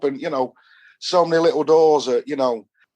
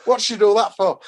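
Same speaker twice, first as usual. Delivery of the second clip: baffled outcry; 8 semitones higher than usual. Retold or imitated. Kid stunned after being slapped.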